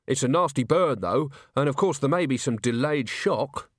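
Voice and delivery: ordinary delivery, nothing marked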